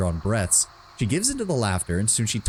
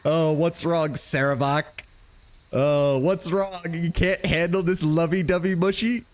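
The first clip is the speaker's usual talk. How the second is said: higher, mocking sing-song at Sarevok; teasing taunt; 5 semitones higher than usual. Real, not acted. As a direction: needle the grumpy warrior. Mocking Sarevok after his complaint.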